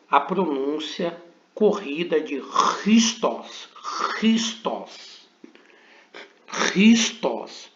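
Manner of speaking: Christos said with a throaty doubled R, run together; teacher demonstrating the joined pronunciation; guttural double R. Shown as a demonstration. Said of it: "como se tivéssemos pronunciando duplamente o R".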